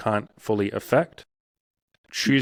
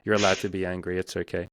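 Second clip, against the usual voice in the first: tender comfort; 2 semitones lower than usual. Retold or imitated. Hugging his old angry self, gently reassuring. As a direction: comfort him gently, like a hug in words. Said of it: "give him a hug and a kiss on the forehead".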